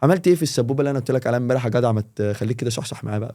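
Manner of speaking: lightly voiced streetwise buddy banter; casual street Egyptian. Shown as a demonstration. Teacher showing casual street slang to a friend. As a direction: chat like a guy from the street. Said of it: "الانفورمال اللي هو الكوليكوال".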